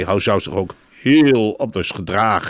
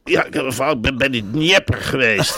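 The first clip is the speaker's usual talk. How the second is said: higher-pitched, mock-urgent reporter; pushy mock newsman, pitched up; insistent reporter imitation; 4 semitones higher than usual. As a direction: lightly parody a reporter demanding airtime. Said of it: "dat hij daar heel dwingend is".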